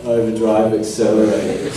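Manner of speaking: flat, tired "Overdrive, accelerate." with no energy; just drop it out, worn down; jaded. Shown as a demonstration. Actor at season end mumbling the morph call, bored. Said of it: "you kind of just go".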